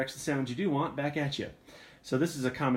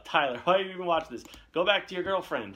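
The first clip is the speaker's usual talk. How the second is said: raised, louder teasing telling-off; mock scolding; 6 semitones higher, 5 dB louder than usual. Streamer teasing Tyler for watching, mock scolding. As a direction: playfully send a viewer packing, loud and high.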